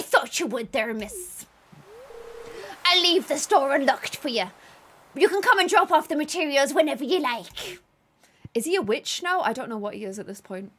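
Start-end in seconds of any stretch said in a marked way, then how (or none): 2.8-7.8 voice acting. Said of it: "Ten out of ten voice acting".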